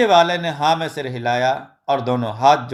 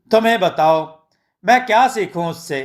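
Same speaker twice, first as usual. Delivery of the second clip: put-on "तुम्हें बताओ" raised into a higher child's voice; the boy's complaint, said higher on the retake; child's voice, retaken; 3 semitones higher than usual. Shown as a demonstration. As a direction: redo the line pitched up like the little boy. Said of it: "तुम्हें बताओ, (first take)".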